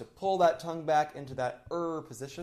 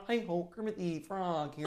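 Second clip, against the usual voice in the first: nasal bright Kermit voice; 2 semitones higher, 9 dB quieter than usual. Shown as a demonstration. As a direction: lift the soft palate for a brighter Kermit. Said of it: "And a lot more like".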